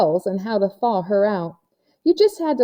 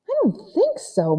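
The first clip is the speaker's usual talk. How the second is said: lightly voiced Melanie; 10 semitones higher than usual. A narrator's reading.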